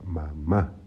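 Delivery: "mamá" split in two, weight on the final "má"; stress on last syllable. Shown as a demonstration. Teacher giving an example of a tónica syllable, stressed "mamá". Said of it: "En la última sílaba está el acento".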